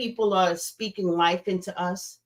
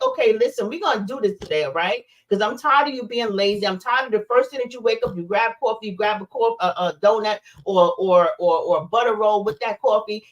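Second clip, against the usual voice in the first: stern self pep talk. Pretend. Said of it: "be like".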